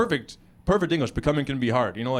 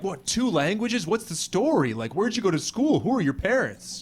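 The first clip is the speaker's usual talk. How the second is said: higher-pitched, impressed questioning; impressed amazement; 4 semitones higher than usual. Acted. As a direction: fire off curious questions in awe. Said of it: "in the U S, people are like".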